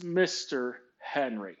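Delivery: slow, measured correction of a name; lightly acted, drawn-out insistence on the title; pointed correction. Boss corrects how he is addressed.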